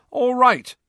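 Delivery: high, loud call to the team; rally the whole team at once. Acted. Captain Angelina calling the team to order, loud. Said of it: "called Angelina".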